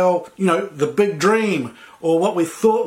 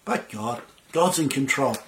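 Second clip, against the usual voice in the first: calm reassurance. Retold or imitated. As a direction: ease off and sound at peace. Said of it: "just calm down and say".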